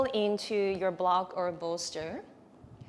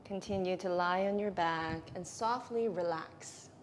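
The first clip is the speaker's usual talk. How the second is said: guided meditation. Real, not acted.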